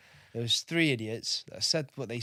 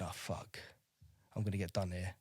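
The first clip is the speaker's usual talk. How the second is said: 1 worried thought; 4 semitones lower, 11 dB quieter than usual. Retold or imitated. Fearful thought before the commanding officer.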